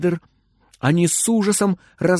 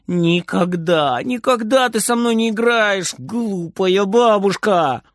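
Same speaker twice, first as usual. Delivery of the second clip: put-on slow, drawn-out childish whine; whining; 5 semitones higher than usual. Frieder whining after grandma as she leaves. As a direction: sulk it out under your breath, dragging the words. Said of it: "Фридер ноет ей вслед".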